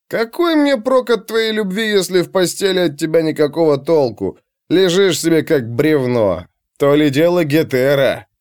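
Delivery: put-on drunken, high-starting contempt; scornful barbarian. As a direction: sneer at a clinging lover.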